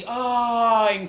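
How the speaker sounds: drawn-out mimicked "ahh"; imitated moan. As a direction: stretch the ahh into a mock moan. Imitating partner's sounds in bed.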